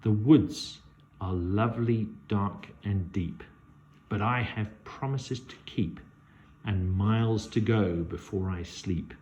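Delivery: slow, measured recital of the verse; slow poetic recitation; poem reading. Acted. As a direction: read it like a poem, savouring each line. Reads the poem aloud.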